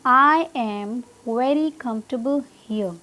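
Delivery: very slow, word-by-word example with "kumf-tuh-bl" for comfortable; teacher's slow demonstration, comfortable without "table"; model sentence. Shown as a demonstration. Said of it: "क्या है exact pronunciation".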